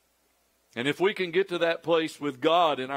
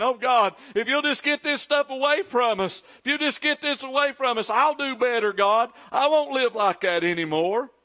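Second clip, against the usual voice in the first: much higher, begging God; frightened prayer; 6 semitones higher than usual. Retold or imitated. Americans praying through covid, a higher, desperate plea. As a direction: plead like someone scared of covid. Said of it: "How many Americans have been saying".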